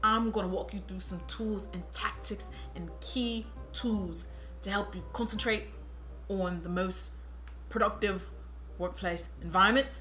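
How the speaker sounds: put-on lightly done London accent; Tottenham accent. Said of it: "I'm from Tottenham".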